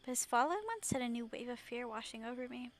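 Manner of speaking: measured, subdued first-person narration; understated reflective storytelling; story narration. Acted. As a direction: read the story aloud, gently and evenly. Reads story aloud.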